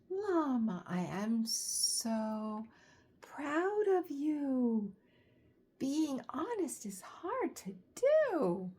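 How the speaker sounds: slow, proud mama voice; proud mother. Acted. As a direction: praise your child gently. Mama Llama speaks to Llama.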